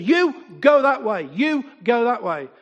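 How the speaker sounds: retold firm command, punched at the start; bossy order. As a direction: separate two brawlers like a cross schoolteacher. Retold ordering two fighters apart.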